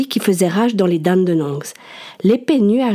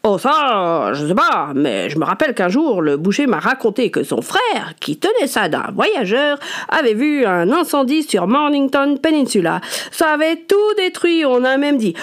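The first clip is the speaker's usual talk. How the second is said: chatty neighbour, rising excitement; rambling gossip, voice climbing higher; gossipy neighbour; 4 semitones higher than usual. A narrator's reading.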